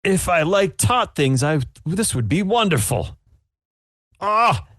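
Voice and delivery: damn it with faint praise; sour judge. Acted. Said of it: "He's like".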